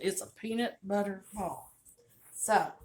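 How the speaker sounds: Southern drawl on peanut butter ball, stretched vowels; really good Southern accent. Shown as a demonstration. Cook showing viewers the Tennessee way to say it, in a thick Southern accent. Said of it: "a really good accent".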